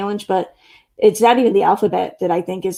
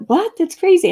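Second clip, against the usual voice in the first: higher, louder imitation of baffled people; mock incredulity; 10 semitones higher, 4 dB louder than usual. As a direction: play a disbelieving reaction, pitched up. Acting out other people's disbelief.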